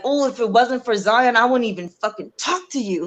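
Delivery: mildly heated retort, imitating an earlier argument; a touch of mad indignation in the retelling; retold anger. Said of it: "And I was so mad".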